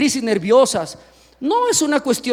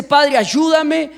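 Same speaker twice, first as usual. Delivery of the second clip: pleading prayer; 3 semitones higher, much slower than usual. Acted.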